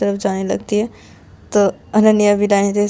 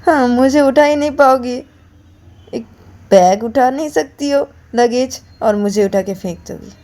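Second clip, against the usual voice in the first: higher mocking taunt; mocking scoff; 4 semitones higher than usual. Ananya mocks Payal for threatening to lift her, scoffing. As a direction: laugh off her threat with scorn.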